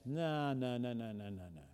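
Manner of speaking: the tempting flesh dying away to nothing; old flesh voice. Acted. Preacher voicing the old flesh, fading murmur. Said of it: "The old flesh says".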